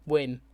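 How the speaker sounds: "whim" with a plain W, as "wim". Shown as a demonstration. Showing how it sounds in my accent, "whim" said as "wim". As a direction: drop the H from "whim", starting straight on the W. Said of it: "always just miss the H out".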